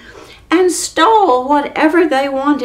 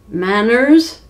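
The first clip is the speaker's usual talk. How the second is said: shouted; 4 dB louder than usual. Acted. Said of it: "the rude giant shouted".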